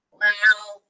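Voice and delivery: loud, grudging troll "well"; lightly voiced storybook troll; troll's growl. A narrator's reading. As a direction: growl it reluctantly. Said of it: "growled the troll".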